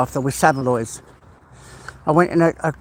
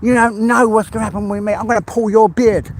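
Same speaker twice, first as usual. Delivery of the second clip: hammed-up fake fury, a touch higher; mock drama anger; 4 semitones higher than usual. Streamer fake-scolds Arkash, hammed-up mock anger. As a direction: playfully threaten a friend with pretend rage. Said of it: "this is about as far as I can go with the drama".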